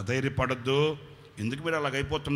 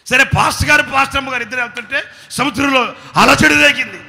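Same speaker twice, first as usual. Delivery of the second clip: higher, louder storm telling; dramatic retelling; 11 semitones higher, 16 dB louder than usual. Real, not acted. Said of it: "ఇది కథ". (పెద్ద గొంతుతో తుఫాను కథ)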